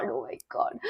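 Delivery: breathy whispered aside. Real, not acted. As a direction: drop to a whisper, half to yourself. (फुसफुसाकर "oh my God")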